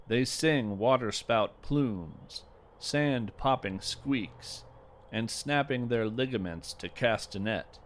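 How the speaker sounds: measured, unhurried poetry reading; poem reading. Acted. Host reading a listener's clam poem aloud, measured poetic read. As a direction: read the verse with gentle, deliberate pacing.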